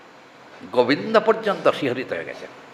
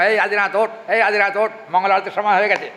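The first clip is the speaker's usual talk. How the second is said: raised voice calling someone awake; mock calling out; 4 semitones higher, 3 dB louder than usual. Preacher reenacts waking Adinath for arati, calling out. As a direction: call him to get up for the morning prayer.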